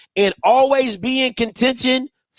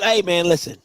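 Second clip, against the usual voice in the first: mock Bama voice; 3 semitones lower than usual. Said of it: "them bougie Bama said".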